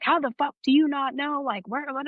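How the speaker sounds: high-pitched mock outrage; imitated going off. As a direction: act out an incredulous superior tearing into you. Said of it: "so he's just going off".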